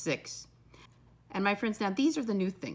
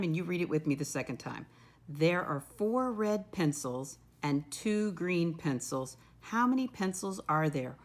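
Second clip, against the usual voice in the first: teacher read-aloud; 3 semitones lower than usual. Shown as a demonstration. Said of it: "Let me read the problem by myself the first time".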